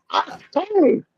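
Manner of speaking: high-pitched fake sneeze; German-style sneeze. Shown as a demonstration. Offering another German sneeze, high fake sneeze. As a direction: squeal out a mock German sneeze. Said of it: "Now, as for German, people would be like".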